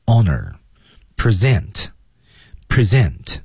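very slow "honor" with no H, then "present" twice; careful drill for students; slow pronunciation demo. Shown as a demonstration. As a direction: spell it out with your voice. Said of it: "H不发音".

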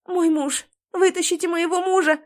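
wife insisting medics save her husband; desperate demand. A narrator's reading. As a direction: force them to take him first.

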